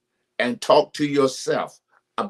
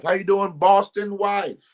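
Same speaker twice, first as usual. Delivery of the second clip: playful greeting; 9 semitones higher than usual. Real, not acted. Teasing greeting repeated.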